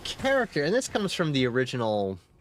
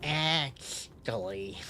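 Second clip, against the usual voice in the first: Reddit mod voice; 5 dB quieter, much slower than usual. Pretend. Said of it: "a Reddit mod voice".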